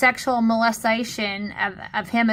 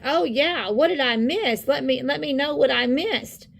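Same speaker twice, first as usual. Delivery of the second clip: swooping, eager-sounding imitation; put-on excited curiosity; mock excitement; 2 semitones higher than usual. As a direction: mimic someone all excited for gossip. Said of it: "getting all excited with happy faces".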